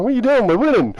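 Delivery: high, loud, outraged yell; worked-up retold protest, pitched right up; acted loud protest. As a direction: shout in disbelief at whoever stopped you. Drunk protest at fight broken up.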